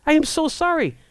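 shocked apology. Retold or imitated. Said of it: "and I'm like".

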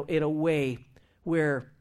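usual speaking voice

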